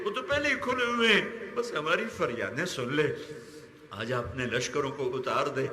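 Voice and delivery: fervent prayer, pleading with God; impassioned supplication. Real, not acted. Preacher pleads to God for a wounded country, impassioned supplication. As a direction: pray aloud with urgent feeling.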